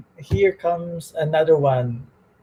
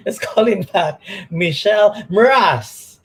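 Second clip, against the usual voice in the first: laughing; 4 semitones higher, 4 dB louder than usual. Real, not acted. Laughing while introducing guest.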